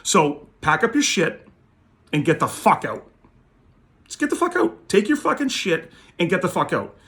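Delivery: reliving the moment he threw him out; retold yelling. Throwing collector out, retold.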